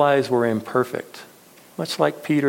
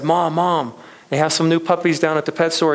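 put-on excited child; 5 semitones higher, faster than usual. Boy runs home to mom.

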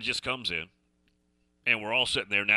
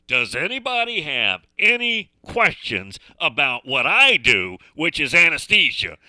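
mildly exasperated; 3 semitones higher, 5 dB louder than usual. Retold or imitated. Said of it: "she's getting really mad".

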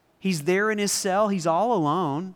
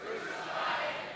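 mock crowd shout; 12 dB quieter, slower than usual. Shown as a demonstration. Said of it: "I'm gonna turn that up".

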